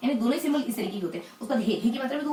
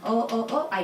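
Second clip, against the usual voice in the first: put-on stammering child calling mother; much slower than usual. Shown as a demonstration. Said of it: "इस तरीके से अपन pronounce करें".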